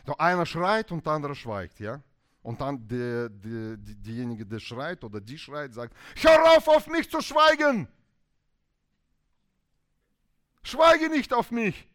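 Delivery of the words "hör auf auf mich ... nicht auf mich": loud, high shouted demand; furious wife shouting; angry yell. Acted. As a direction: yell it at the silent spouse. Quarrelling spouse yelling at partner.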